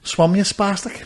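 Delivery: high, slow mock call; mock shout. Bystanders calling to a drowning man, half-voiced mock shout. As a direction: call it out high without real volume. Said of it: "you know what they shouted at them".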